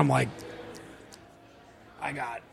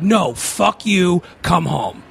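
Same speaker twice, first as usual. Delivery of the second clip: mildly angry, slow, separated words; pissed friend; much slower than usual. Retold or imitated. Best friend refusing to believe the bad news, pissed. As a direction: draw out a retold refusal, then drop to an order. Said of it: "he's pissed at me".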